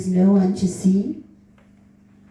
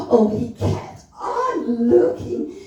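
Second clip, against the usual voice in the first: breathless exclamation; 7 semitones higher than usual. A narrator's reading. Heroine's gasped exclamation.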